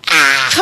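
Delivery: short mock yell of protest; a quick imitation of a stubborn child's cry; imitated child's scream. Preacher mimics his son yelling when thwarted, mock scream. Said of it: "무조건 소리 질러요".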